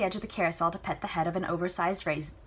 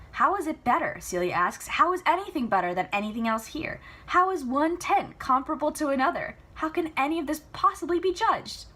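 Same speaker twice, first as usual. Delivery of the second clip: higher, louder daughter pressing; frustrated demand; 9 semitones higher, 5 dB louder than usual. Acted. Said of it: "Celia demanding answers".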